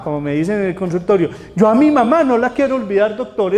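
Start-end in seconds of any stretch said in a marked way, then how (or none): 1.5-3.5 higher, louder pleading patient. Retold or imitated. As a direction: beg the doctor not to make you forget. Paciente que no quiere olvidar. (paciente que suplica, más aguda y fuerte)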